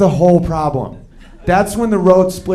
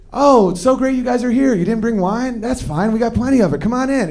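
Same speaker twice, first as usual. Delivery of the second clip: higher, lightly sugary hostess; sweet hostess voice; 3 semitones higher than usual. Retold or imitated. Buddy's wife greeting guests at a party, sugary hostess voice. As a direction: play the overly gracious host. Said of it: "your buddy's wife is like".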